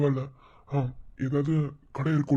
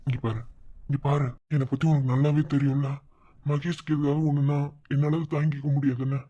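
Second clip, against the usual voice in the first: tender comfort; 2 semitones lower than usual. Acted. Husband comforting his crying wife.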